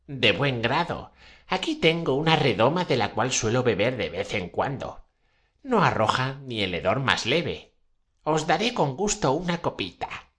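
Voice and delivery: put-on high old witch voice. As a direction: pitch up into an old crone. Witch offers the potion. (voz aguda de bruja vieja)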